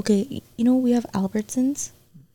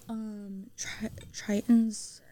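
whispering; 7 dB quieter, slower than usual. Real, not acted. Unsure of a name.

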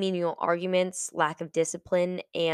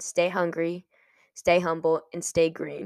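casual. Retold or imitated. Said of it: "in the most casual way possible".

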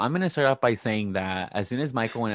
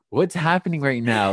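incredulous; 5 semitones higher, 5 dB louder than usual. Retold or imitated. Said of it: "I was uncomfortable because I'm like".

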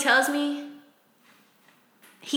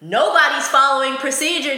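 teacher voice; 3 semitones higher, 4 dB louder than usual. Retold or imitated. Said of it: "Now I gotta get my teacher voice".

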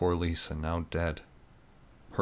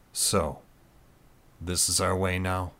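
acidly. Acted.

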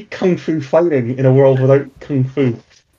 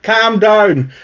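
higher, firm guard voice; guardsman calming; 7 semitones higher, much slower than usual. Acted. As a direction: settle the crowd like a guard. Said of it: "a guardsman here who's like".

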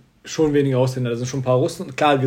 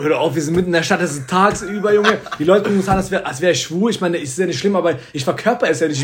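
higher-pitched indignant retelling; empörter Protest; 4 semitones higher than usual. Retold or imitated. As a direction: replay a flustered, embarrassed protest. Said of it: "ich dachte mir so". (nachgespielter empörter Protest)

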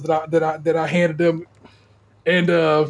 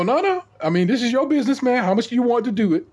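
pitched higher, eager and insistent; insistent retold protest; 6 semitones higher than usual. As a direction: push him to name his own price, pitch raised. Insisting he name his price.

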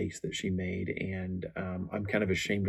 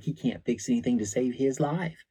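a higher, lightly voiced dismissive wife; belittling quip; 5 semitones higher than usual. Wife belittling husband to the pastor, light mock scorn. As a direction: toss it off like a put-down. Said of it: "She's like".

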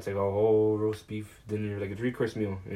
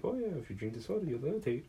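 talking soda; 6 semitones higher, faster than usual. Retold or imitated.

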